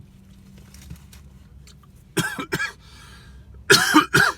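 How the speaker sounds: long hacking coughs; coughing fit. Real, not acted. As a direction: cough it up hard. Choking on a taquito.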